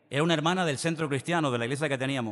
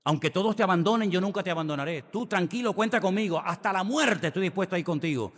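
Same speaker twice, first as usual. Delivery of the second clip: louder, higher brave boast; boastful Peter; 5 semitones higher, 3 dB louder than usual. Retold or imitated. Peter boasting to the Lord, loud and swaggering. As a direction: swagger like a tough guy promising loyalty. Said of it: "allí en plan valentón".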